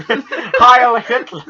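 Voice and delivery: slow, high mock German accent; German drawl. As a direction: stretch it out in a hammy German accent. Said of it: "a slightly German drawl".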